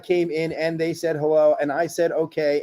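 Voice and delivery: run-on, evenly pitched reading; deadpan reading as one endless sentence; no punctuation. Shown as a demonstration. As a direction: read straight through without sentence breaks. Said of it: "read it with no punctuation".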